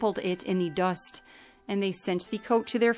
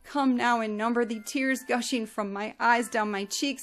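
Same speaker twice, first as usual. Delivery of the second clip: weeping lament; 3 semitones higher than usual. Acted. Yaakov mourning Yosef in sackcloth, weeping lament. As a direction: wail for a lost son. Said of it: "lifted up his voice in weeping".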